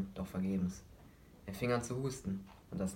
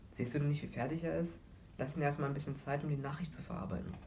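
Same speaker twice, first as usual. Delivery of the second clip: higher-voiced mother scolding gently; admonishing mother; 6 semitones higher than usual. Mother admonishing the father to give their son time. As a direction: rein in her husband, protective of the boy. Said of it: "ermahnte seine Mutter den Vater".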